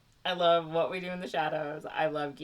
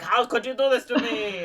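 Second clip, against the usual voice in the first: a touch higher, laughing hurt cry; hammed-up betrayed cat; mock betrayed hero; 6 semitones higher than usual. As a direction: play the wounded friend, half laughing. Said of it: "Puss in Boots is like".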